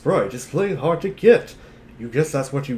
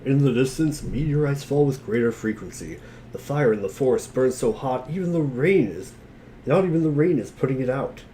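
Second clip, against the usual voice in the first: game narration. Acted. Narrating the game scene aloud.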